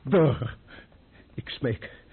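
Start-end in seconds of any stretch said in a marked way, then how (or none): 1.3-2.0 breathless whispered begging; whispered plea. Acted. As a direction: beg in a frightened whisper. Pleading frightened man.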